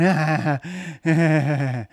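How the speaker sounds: playful fake laughing; mock laughter. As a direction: ham up a giddy kiddie-pool laugh. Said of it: "we're laughing, going".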